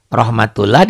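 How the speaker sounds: rahmatullah spelled out with a plain "lah"; as written. Shown as a demonstration. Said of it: "tulisannya kan rahmatullah".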